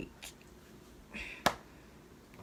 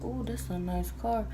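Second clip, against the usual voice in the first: laughing aside; 2 semitones higher, 4 dB quieter than usual. Real, not acted. Aside, laughing at passing car.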